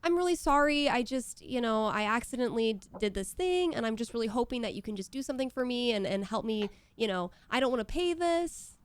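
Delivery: lightly high, apologetic sweet-talking voice; a hint of manipulative pleading; pleading phone voice. Shown as a demonstration. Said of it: "It sounds like".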